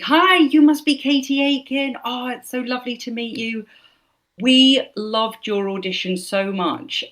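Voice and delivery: high-pitched, effusive director welcome; acted-out overjoyed hello; gushing greeting. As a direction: gush as you greet a new star.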